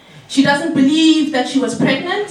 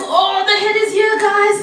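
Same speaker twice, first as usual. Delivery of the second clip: higher, urgent announcement; excited alarm; 6 semitones higher than usual. Retold or imitated. Cousin announcing the head to everyone in the car, excited. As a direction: tell the whole car in a rush.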